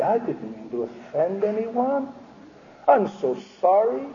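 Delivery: mock-apologetic people-pleaser; sarcastic imitation of an over-polite apology. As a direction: apologize meekly, with obvious sarcasm. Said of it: "You say you're being sarcastic".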